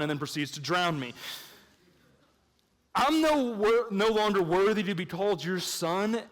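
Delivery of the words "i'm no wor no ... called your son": a hint of the son's plea; requoting the son. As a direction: echo the son's words to question them. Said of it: "actually doesn't make any sense".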